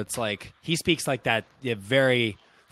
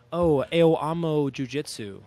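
put-on gringo American accent on Portuguese; Portuguese in a slow American accent; slower than usual. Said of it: "If I sound like a gringo".

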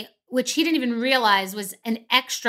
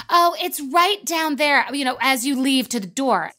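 overly nice waitress; 3 semitones higher than usual. Retold or imitated. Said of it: "passive-aggressive, like, overly nice, high-pitched voice".

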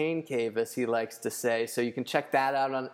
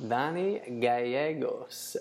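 put-on slow, careful Spanish-accented name; slower than usual. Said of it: "I was gonna pronounce it in Spanish".

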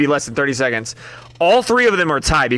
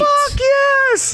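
much higher, hammed-up party whoop; drunk cheer. Drunk guy at a party cheering the chips, hammed-up whoop.

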